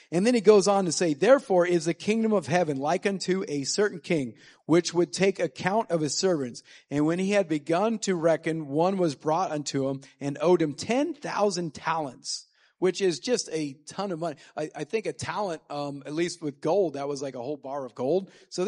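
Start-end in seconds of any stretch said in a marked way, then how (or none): 1.1-12.4 scripture reading. Acted. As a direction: read it like solemn scripture from the pulpit. Reads parable in scripture voice.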